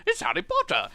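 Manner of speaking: very high, posh schoolboy voice; mock a posh British boy, piping high; hammed-up posh English wizard boy; posh Harry Potter. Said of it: "they speak around like Harry Potter".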